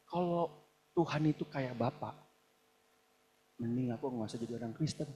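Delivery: low, muted retelling of a refusal; understated, softly voiced reluctance; subdued quote. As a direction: quote it quietly and low, holding back. Quotes a man rejecting God as father.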